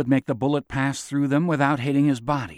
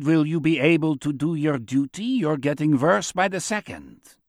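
a hint of Chaim's measured foreign voice; lightly voiced accented elder; 2 semitones higher than usual. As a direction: lightly play a composed, needling prisoner.

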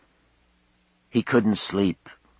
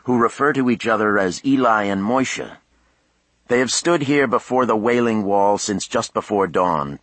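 TV news reporter; 2 semitones higher than usual. A narrator's reading. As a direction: announce it like a field correspondent. Voices a TV reporter.

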